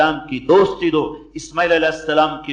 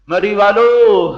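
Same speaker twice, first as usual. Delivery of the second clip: calling out; 3 semitones higher, 5 dB louder, slower than usual. Real, not acted. Preacher calls out to audience.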